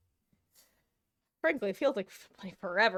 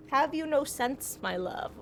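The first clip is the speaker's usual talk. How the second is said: tender chiding; 3 semitones higher than usual. Real, not acted. Gently chiding the cat.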